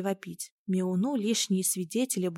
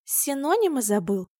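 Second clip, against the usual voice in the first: mocking snort; 6 semitones higher than usual. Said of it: "насмешливо фыркнула Василина".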